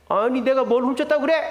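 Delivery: indignant retort, lightly acted; imitating an offended customer flaring up; mock outrage. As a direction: protest a false accusation. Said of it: "눈 뒤집어지죠".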